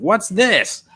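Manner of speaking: high, puzzled what's this; puzzled man in hole. Acted.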